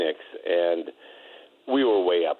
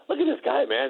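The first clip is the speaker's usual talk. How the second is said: mocking. Larry mocking a muscled opponent.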